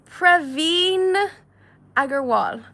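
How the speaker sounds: put-on loud, playful Indian accent; teasing, hammed-up Indian accent. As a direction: put on a big mock Indian accent for the name. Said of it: "I'm just doing, um, Indian accents".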